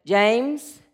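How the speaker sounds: lightly voiced low God; a hint of a deep, heavenly voice; booming voice of God. God calls to the hanging hiker, low booming voice. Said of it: "it's a booming voice that says".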